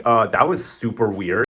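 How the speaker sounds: slow, put-on awkward voice; weirded-out voice. Everyone reacting to Camilo forcing the ring, slow awkward voice. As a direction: drag it out like you're creeped out.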